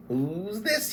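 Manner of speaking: high curious gasp; surprised kender. Acted. Kender spotting the bearded half-elf, surprised.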